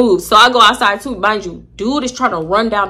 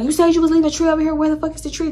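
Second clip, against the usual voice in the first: mock angry demand; 7 semitones higher, faster than usual. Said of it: "Chelsea's like".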